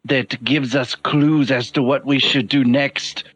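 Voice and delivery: lightly voiced formal, deliberate character; measured, formal adviser. Adviser urging the group to eavesdrop, measured and formal. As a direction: counsel the party in careful, formal phrases.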